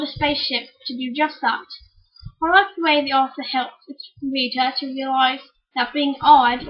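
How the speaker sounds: careful child's attempt at a British accent; put-on British accent. Little sister reads a book review, pretend British accent. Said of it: "read it in a British accent".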